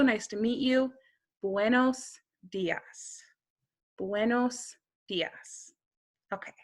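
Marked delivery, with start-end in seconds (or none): 1.4-5.7 "Buenos dias" drawn out slowly and gently, twice; slow and soft Spanish model; slow repeat model. Shown as a demonstration. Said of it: "the best and easiest thing to learn is just buenos dias".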